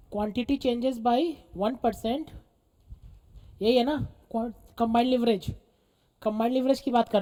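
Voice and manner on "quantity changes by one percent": very slow, drawn-out dictation. Real, not acted. Teacher finding the note-taking tone again, slow dictation. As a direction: stretch each word, rising at the end. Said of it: "क्या था tone उसका?".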